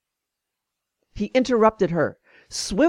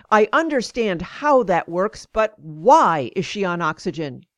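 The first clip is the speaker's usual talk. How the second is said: raised voice. Retold or imitated. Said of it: "He raised his voice".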